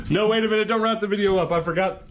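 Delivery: high-pitched, hurried "hold everything"; urgent interruption. Acted. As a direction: cut in with sudden alarm. Acts halting the video wrap-up.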